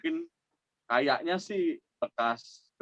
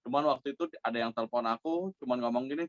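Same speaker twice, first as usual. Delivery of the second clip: normal talking voice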